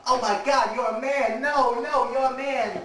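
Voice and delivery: high, loud horrified squeal; shrieking Carter. Retold or imitated. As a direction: shriek it in mock horror. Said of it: "Carter's like".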